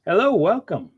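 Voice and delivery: put-on Asian accent, high and bright. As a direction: greet like a restaurant host in an Asian accent. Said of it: "bow with my best Asian accent".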